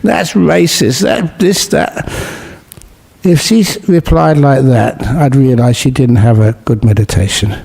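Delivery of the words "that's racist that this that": upset protest, higher and rising to a peak; mock an indignant meditator's outburst; mock angry retort. A retreat student snaps back at the monk, mock angry. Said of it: "got upset and angry and said".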